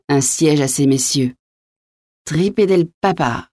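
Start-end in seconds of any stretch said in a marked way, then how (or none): 2.3-3.5 high, slowed oath without real volume; mild narrated yell. A narrator's reading. Gentleman drawing his sword, mock-yelling an oath. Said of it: "hurla Coconas".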